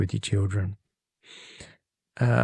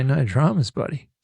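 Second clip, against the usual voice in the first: Aussie phrase; 4 semitones higher than usual. Shown as a demonstration. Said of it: "Or you could say".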